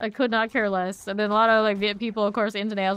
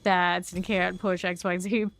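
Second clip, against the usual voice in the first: mock outraged gamer; 5 dB louder than usual. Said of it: "It's like".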